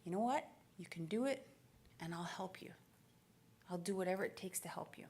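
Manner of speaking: soft, low promise; tender reassurance. Retold or imitated. Single mom to her daughter with a dream, tender reassurance. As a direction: let it sink softly, sincere. Mom's supportive promise, retold.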